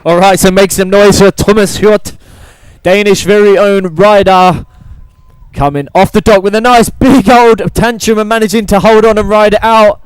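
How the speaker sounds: rally the crowd; hype announcer. Real, not acted. Hyping the crowd.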